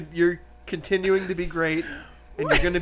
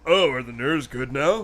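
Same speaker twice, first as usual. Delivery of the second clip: lower, genuinely curious question; sincere innocent voice; 3 semitones lower than usual. Shown as a demonstration. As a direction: ask it like you truly want to know. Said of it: "Let me try again".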